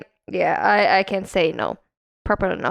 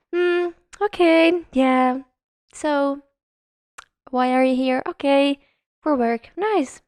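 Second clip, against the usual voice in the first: polite feigned interest; 3 semitones higher than usual. Retold or imitated. Receptionist to guests she finds annoying, politely interested.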